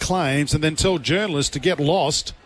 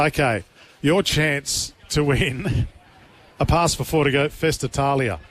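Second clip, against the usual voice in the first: Italian accent; 3 semitones lower than usual. Shown as a demonstration. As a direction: roll Festa Italia like an Italian. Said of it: "I wasn't gonna do my Italian accent".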